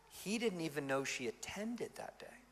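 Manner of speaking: whispered aside, no voice. Real, not acted. Pastor telling the congregation a secret, whispered. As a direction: lean in and whisper it.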